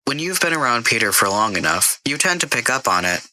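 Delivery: a computer voice that won't take the blame; a hint of a prim AI. Karen the AI answers Jason.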